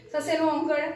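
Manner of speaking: ਸੱਸੇ ਨੂੰ ਔਂਕੜ as the wrong way to spell it out; teacher showing the wrong spelling order of ਸੁੰਦਰ. Shown as a demonstration. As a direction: demonstrate ਸੱਸੇ ਨੂੰ ਔਂਕੜ as the mistake to avoid. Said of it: "ਏਦਾਂ ਨਹੀਂ ਬੋਲਣਾ".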